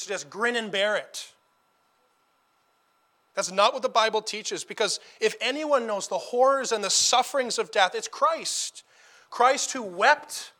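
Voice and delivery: earnest sermon voice, steady and weighty; preaching. Acted. Preacher urging the congregation at a funeral, earnest preaching. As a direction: exhort the flock to hold on to hope.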